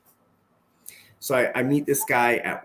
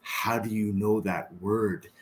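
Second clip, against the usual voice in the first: astonished question; 3 semitones lower, 5 dB quieter, slower than usual. Retold or imitated. Acted astonished reply, slowed down.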